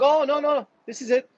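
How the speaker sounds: high, whiny mock panic; mock billionaire whine, high and fast at the end. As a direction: squeal it like a spoiled rich guy caught out. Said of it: "they're like".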